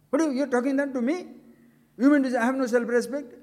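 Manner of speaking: fast, rising indignant retort; mock indignant outburst. The speaker mimicking an offended man, fast indignant retort. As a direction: snap back like a wounded ego. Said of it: "how do people say that?".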